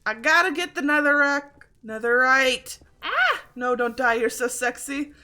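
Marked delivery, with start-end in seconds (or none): 4.2-5.1 playful flirty line with a lift at the end; a mock compliment ending on a rise; teasing compliment. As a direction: tease yourself lightly. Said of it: "Oh, I am so sexy".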